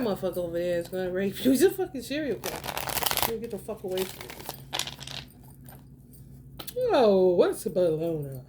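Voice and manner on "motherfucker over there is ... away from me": rapid, low, unbothered delivery; quick calm aside, no alarm; calm matter-of-fact. Shown as a demonstration. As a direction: say something alarming like it's routine. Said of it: "how I'm saying it so calmly".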